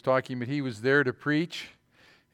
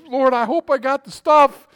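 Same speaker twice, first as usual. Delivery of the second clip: loud, high retold plea of an excited preacher; getting excited; 8 semitones higher, 9 dB louder than usual. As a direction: imitate a preacher getting all fired up. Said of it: "he was getting excited".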